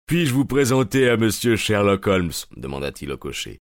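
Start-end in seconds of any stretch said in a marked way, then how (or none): 0.1-2.3 proud. Acted. Gregson introduces proudly.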